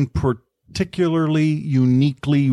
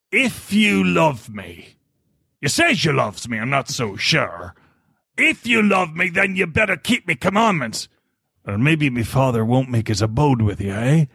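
like a pirate. Retold or imitated. Reading John fifteen to show a shame filter, mock pirate. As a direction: growl the verse like a suspicious pirate. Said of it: "like a pirate".

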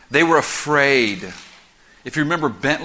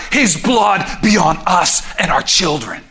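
slow, raised mock crowd shout; crying out; 3 semitones higher, 4 dB louder, slower than usual. The crowd answering Pilate about Jesus' blood, crying out. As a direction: shout it out as an acted mob reply. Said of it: "They cried out".

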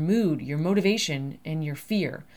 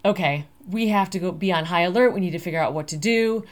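louder, startled panic on Oh my God; mock alarm; 5 dB louder than usual. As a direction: act out the body's alarm bell going off. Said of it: "an alarm that tells your body".

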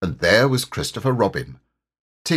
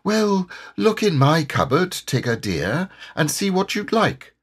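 gentle motherly Kanga, raised pitch; kindly; 8 semitones higher than usual. A narrator's reading. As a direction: offer it kindly to a hungry guest. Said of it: "Kanga said very kindly".

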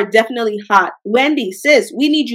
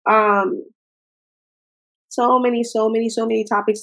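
choked up; 4 dB quieter than usual. Real, not acted. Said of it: "that really made me sad".

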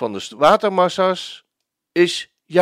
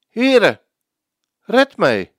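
high, loud plea for rescue; sinking man's loud cry; desperate cry; 5 semitones higher, 5 dB louder, slower than usual. Acted. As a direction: shout for help while sinking. Sinking Peter cries for help.

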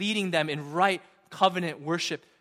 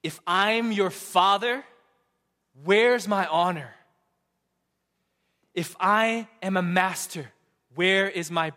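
voicing God's indignant challenge, a touch louder; emphatic demand; 3 semitones higher, 4 dB louder than usual. God challenging the priests, emphatic and indignant. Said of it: "God emphatically demands".

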